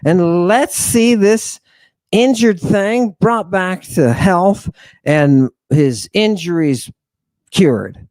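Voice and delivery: a hint of an eager apostle; voicing Philip. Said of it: "turns to Bart and he says".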